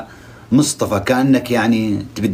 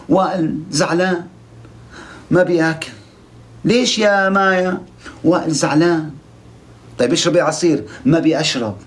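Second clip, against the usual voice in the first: lightly raised, whiny parody of a lovesick contestant; mocking a sulky girl; 4 semitones higher than usual. Vlogger mocks Maya sulking over Wael, mild whiny parody. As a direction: poke fun at her drama with a pouty higher voice. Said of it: "إيش التمثيل هذا يا مايا؟".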